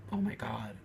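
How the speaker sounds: breathless whispered oh my God; whispered sigh. Real, not acted. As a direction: let it out as a hushed whisper. Recalling hard times.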